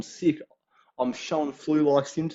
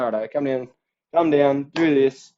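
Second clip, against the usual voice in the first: mock boss call; 6 dB louder than usual. Boss calling in freelancer.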